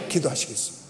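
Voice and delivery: ordinary talk, nothing marked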